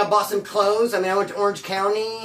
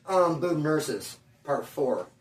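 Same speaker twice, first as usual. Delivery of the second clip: softer and lower, slow and hesitant; embarrassed mumble; 4 semitones lower, 6 dB quieter, slower than usual. Retold or imitated. Embarrassed customer repeating the title, quiet and slow. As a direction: read it out like you wish you didn't have to. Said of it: "It's hell embarrassing".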